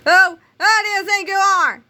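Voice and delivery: high, loud furious shriek; outraged scream. A narrator's reading. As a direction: shriek at the kid. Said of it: "rapidly becoming a scream".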